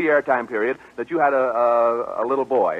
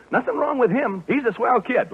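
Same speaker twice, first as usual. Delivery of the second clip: pitched-up demonstration line; high voice; 8 semitones higher than usual. Shown as a demonstration. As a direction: model a little girl's high voice. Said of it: "say that in a high voice".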